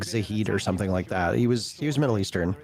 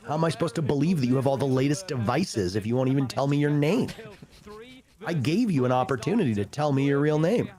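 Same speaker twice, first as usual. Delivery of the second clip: higher, exasperated mock lecture at the caller; mock scolding; 5 semitones higher than usual. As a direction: scold him like he insulted your intelligence.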